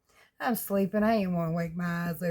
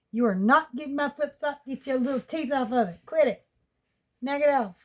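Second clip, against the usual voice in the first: real, raised-pitch telling-off; scolding a puppy; 4 semitones higher than usual. Real, not acted. Woman tells puppy to quit biting her flip-flop, scolding. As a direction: scold a puppy that's chewing on something.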